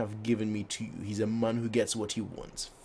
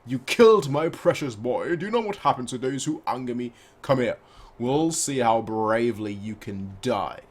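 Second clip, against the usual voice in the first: menacing threat; 4 dB louder than usual. Acted. Villain threatens after killing bird.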